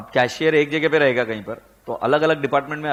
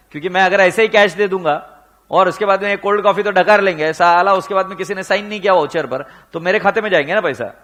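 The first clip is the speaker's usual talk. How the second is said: frustrated cashier's rant; 4 semitones higher, 6 dB louder than usual. Retold or imitated. Frustrated head cashier voiced in story.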